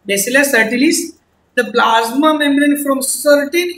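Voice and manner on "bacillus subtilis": "subtilis" without the B sound; silent B. Shown as a demonstration. Teacher repeating the bacterium's name for students, B silent. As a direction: say "Bacillus subtilis", keeping the B in "subtilis" silent. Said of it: "बी silent है".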